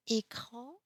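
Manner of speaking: écran with closed "é", slow; écran said slowly, first vowel like "ay"; accent aigu contrast. Shown as a demonstration. French teacher comparing E sounds, slow écran with closed é. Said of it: "every time the pronunciation is different".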